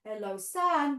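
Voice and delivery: put-on cheerful kids' yoga chant, drawn out; sing-song kids' greeting. Shown as a demonstration. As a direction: greet the sun like a children's teacher. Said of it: "we can do this one more time".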